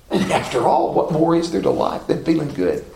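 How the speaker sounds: low, dry sarcasm; deadpan mock reflection on life; sarcastic. Real, not acted. Preacher mocking those who gloat over failures, dryly sarcastic. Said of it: "You know my sarcasm in that".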